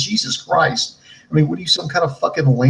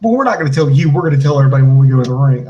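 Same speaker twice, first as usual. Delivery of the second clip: raised voice, rushing to the finish; hyped wrestler quote; 6 dB louder, faster than usual. Acted. Wrestler teasing an announcement to interviewer, loud mock hype. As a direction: lightly mimic a promo tease, louder. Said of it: "he's like".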